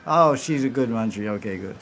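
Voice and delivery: amused chuckle. Retold or imitated. Radharani pleased, laughing at loyalty.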